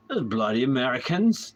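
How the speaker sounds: brief mock-British jibe; playful British accent; fake British accent. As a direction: grumble like a Brit, lightly hammed. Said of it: "Tap into the British".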